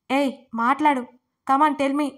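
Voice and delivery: loud, threatening roar; furious shout. A narrator's reading. Angry husband yelling at frightened Dharani, furious shout. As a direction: bellow the threat at her. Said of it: "అని అరిచాడు".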